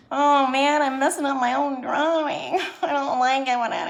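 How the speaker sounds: high, loud laughing complaint. Real, not acted. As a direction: lament your own mistake through real laughter. Laughing over messed-up drawing after silly voice.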